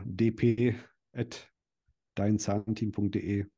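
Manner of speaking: slow, measured email address; dictating. Real, not acted. Guest gives listeners his direct email for applications, dictating slowly. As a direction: read it out slowly to be noted.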